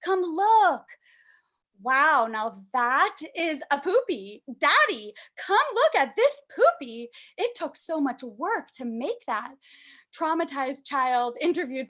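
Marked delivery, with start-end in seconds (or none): 0.0-0.9 lightly voiced proud child; five-year-old child. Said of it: "doesn't end even after five years". 1.8-9.5 drawn-out, lightly voiced child's boast; proud child. Child shows off poopy to Daddy.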